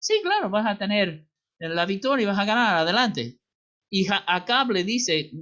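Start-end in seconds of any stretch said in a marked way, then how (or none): 0.0-3.4 falsely encouraging, swooping sing-song sarcastic tone. Retelling a prophet's answer to the king: retelling a sarcastic reply. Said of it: "empieza sarcásticamente diciéndole".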